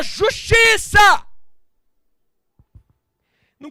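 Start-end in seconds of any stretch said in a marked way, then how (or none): 0.0-1.3 drawn-out, high, very loud cry; Peter's shout. Acted. Peter striking out for his master, long loud battle cry. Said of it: "E Pedro gritou".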